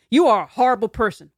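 accusing parent. Retold or imitated. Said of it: "Let's say I'm your parent".

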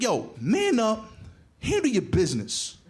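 lightly voiced tough dad laying down his one rule; gangster dad. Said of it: "He was a gangster with one proverb".

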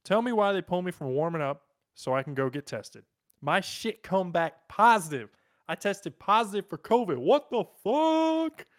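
hammed-up indignation, exploding at the end; mock outrage. Reading a player's tweet about testing positive, in mounting mock outrage.

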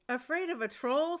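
scoffing. Acted. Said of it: "scoffed the farmer".

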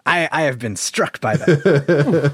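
laughing through the words; gasping with laughter. Real, not acted. Laughing hard at a joke.

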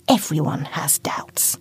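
soft, hushed calm reassurance; calm her nerves gently; soothing mother. Acted.

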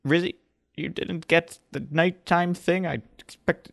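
put-on high, put-upon old woman; elder woman voice. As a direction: scold them like a grand matriarch. Elder woman Esma speaks.

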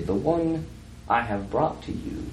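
slight character voice, falling away softly; Wilfred. Acted. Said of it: "And then Wilfred's voice say".

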